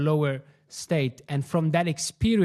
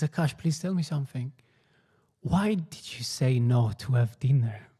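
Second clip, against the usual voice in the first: Guruji; 2 semitones lower, 3 dB quieter than usual. Retold or imitated. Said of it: "Guruji is legitimately sad".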